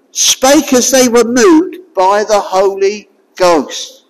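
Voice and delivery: solemn scripture read again; verse read again; repeated reading. Shown as a demonstration. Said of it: "I'll repeat that".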